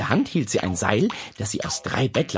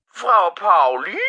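louder, slow, anxious call through the phone; worried neighbour; 8 semitones higher, 6 dB louder, slower than usual. Acted. Neighbour calls through the dropped phone, worried. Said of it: "eine besorgte Stimme".

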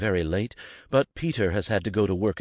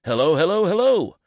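high and louder, announcing yourself to the room; cheery hello; 11 semitones higher, 8 dB louder than usual. Acted. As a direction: sing out "hello" three times, each one higher. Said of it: "greets everyone with a cheery".

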